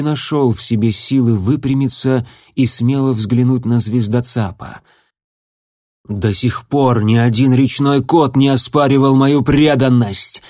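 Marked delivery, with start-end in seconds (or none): 6.1-10.4 growled. Acted. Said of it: "прорычал он".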